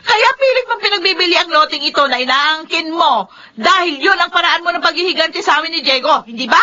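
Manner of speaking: bitter accusation. Acted. Accusing Feli in a quarrel.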